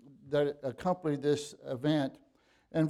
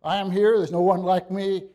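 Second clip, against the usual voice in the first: raised, loud, emphatic assertion; emphatic declaration; 4 semitones higher, 7 dB louder than usual. Acted. Preacher voicing Jesus to the frightened disciples, loud and emphatic. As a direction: declare it forcefully, higher and louder, as Jesus. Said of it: "he say, he's saying".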